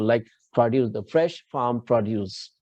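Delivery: "produce" said PRO-duce; "produce" as a noun, PRO-duce; stress on first syllable. Shown as a demonstration. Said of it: "accent on first syllable".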